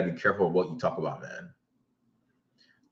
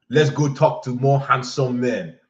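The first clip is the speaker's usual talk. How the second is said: put-on slow, higher pouting girl; lightly voiced drunk girl; 4 semitones higher, 3 dB louder than usual. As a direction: sulk it out slowly.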